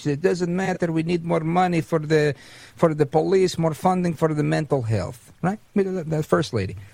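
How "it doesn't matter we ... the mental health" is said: dramatic, put-on Eastern European accent. Radio host quoting a woman from earlier for dramatic effect: Eastern European accent. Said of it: "Eastern European accent".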